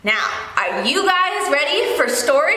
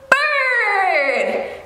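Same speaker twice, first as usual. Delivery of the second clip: higher, louder bird; 5 semitones higher than usual. Shown as a demonstration. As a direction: call out bird. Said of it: "Can you say bird really loudly?".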